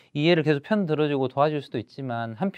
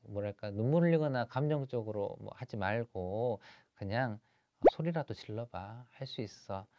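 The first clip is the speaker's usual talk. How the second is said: soft, halting fatherly reassurance; soothing father; 2 semitones lower, 7 dB quieter than usual. Acted. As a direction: gently comfort your son, searching for words. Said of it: "이제 좀 다독다독하고".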